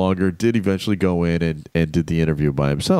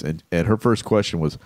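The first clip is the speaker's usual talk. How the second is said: ordinary talk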